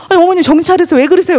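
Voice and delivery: a frightened cry to snap her out of it; alarmed shout. Retold or imitated. Daughter-in-law crying out to her thrashing mother-in-law, alarmed shout.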